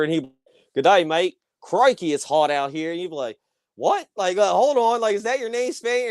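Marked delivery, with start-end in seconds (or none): 0.7-2.9 put-on tossing off Australian slang in a jokey Australian accent; mock Australian accent. Mocking Russell Crowe's Gladiator role, playful Australian accent. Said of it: "he's Australian". 3.8-6.1 much higher, baffled questioning voice; incredulous. Retold or imitated. Viewer confused by the Spaniard nickname, incredulous high voice. Moviegoer baffled by character name.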